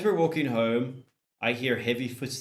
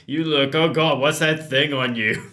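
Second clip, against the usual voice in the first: shocked; 4 semitones higher, 6 dB louder than usual. Acted. Shocked at the baby.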